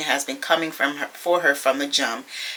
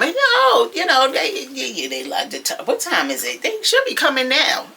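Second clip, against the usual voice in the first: imitating a flustered, stumbling reply; mock fluster, tripping over the words; all flustered; 9 semitones higher than usual. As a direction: act rattled, pitch jumping high then dropping. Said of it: "She was all flustered".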